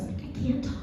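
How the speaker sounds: very soft, whispered plea; mock lost-voice whisper; saving the voice. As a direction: whisper as if unable to talk. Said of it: "trying to save my voice".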